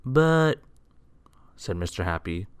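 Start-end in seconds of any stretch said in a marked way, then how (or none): 0.0-0.6 high, interrupted protest; taken aback. A narrator's reading. Mister Happy starts to protest.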